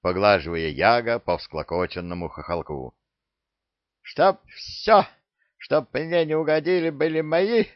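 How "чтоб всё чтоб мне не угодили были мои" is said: greedy parrot. Acted. Parrot demands everything.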